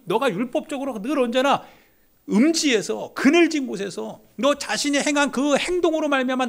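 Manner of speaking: Jesus' words, shouted high and loud; Jesus speaking. Acted. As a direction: proclaim as Jesus, at full force. Jesus voiced at full force. (높고 크게 외치는 예수님 목소리)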